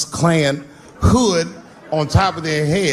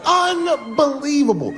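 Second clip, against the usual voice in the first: mock disbelief; 10 semitones higher, slower than usual. Mock outrage at Magic Johnson.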